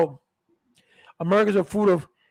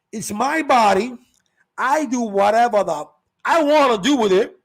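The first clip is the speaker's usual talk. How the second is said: mock defiant quote; 2 semitones higher, 5 dB louder than usual. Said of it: "you're saying".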